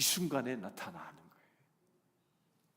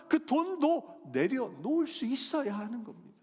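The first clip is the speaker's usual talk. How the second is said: loud, high, rising preacher's exhortation; a fiery sermon cry; full-force preaching; 10 semitones higher, 7 dB louder than usual. Acted. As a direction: press the point hard on the congregation.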